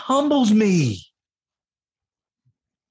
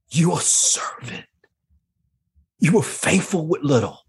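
tearful whisper; 6 semitones lower than usual. Real, not acted. Guest repeating God's verdict in a tearful whisper. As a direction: barely get it out.

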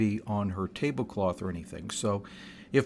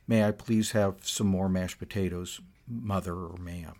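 politely asking for seconds; the well-mannered child's way; polite request; 3 semitones lower than usual. Shown as a demonstration. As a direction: mind your manners, ask sweetly. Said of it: "If you failed to say "please".

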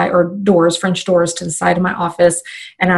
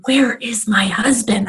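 slow exasperated whisper; inner whisper; 3 semitones higher than usual. Retold or imitated. Mom mid-training wondering where husband is, a slow whisper. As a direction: whisper the thought under your breath. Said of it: "I'm thinking".

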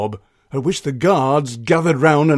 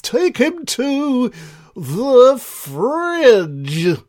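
higher, slow cold command; Ice King voice; 9 semitones higher, 3 dB louder, much slower than usual. Acted. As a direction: pronounce the sentence with relish. King sentences Bob.

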